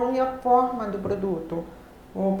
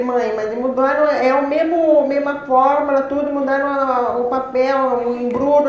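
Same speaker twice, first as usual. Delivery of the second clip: louder, insistent pleading with mother; retold protest; 2 semitones higher, 6 dB louder than usual. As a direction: argue your case in a rush of phrases. (protesto insistente, em voz mais alta)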